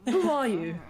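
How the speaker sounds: loud, high, demanding question; gruff sly prisoner. Acted. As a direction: snap it from the cell.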